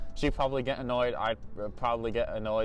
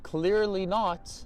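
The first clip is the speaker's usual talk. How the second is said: mock retort; 5 semitones higher, slower than usual. Acted retort to the rude agent.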